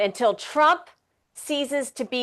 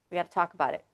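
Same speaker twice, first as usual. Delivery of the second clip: self-censoring; 5 semitones lower, 7 dB quieter, much faster than usual. Real, not acted. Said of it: "I self-censored".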